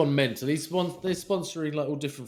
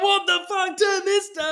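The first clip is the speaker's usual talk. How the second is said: mock appalled rider; 4 dB louder, slower than usual. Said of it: "You're like".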